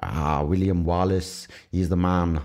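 slow, rough Irish lilt; Scottish impression drifting into Irish; badly faked Irish accent; accidental Irish accent. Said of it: "he's again fucking become Irish".

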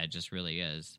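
hushed whisper for a spooky place; creepy whisper. Pretend. Host whispers about the creepy underground hideout.

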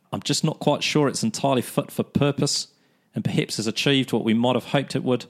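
put-on quoting in a Kiwi accent; New Zealand accent. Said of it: "New Zealand accent".

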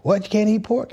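high, incredulous granny voice; imitating his grandmother.

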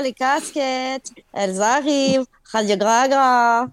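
put-on accent suisse lent et traînant sur « les casquettes »; étire « Radio Gragra » à la suisse, lentement. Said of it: "l'accent suisse". (« les casquettes » avec un accent suisse lent)

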